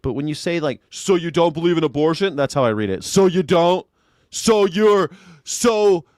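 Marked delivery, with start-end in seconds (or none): 0.9-2.4 mocking leading question, a bit higher; snide gotcha question. Mocking a debate bro's gotcha question. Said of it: "you're saying it like an asshole". 3.0-6.1 higher and louder mock debate-bro pushback; mocking gotcha. Mimicking online debaters, smug and pushy. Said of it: "you hear this shit online".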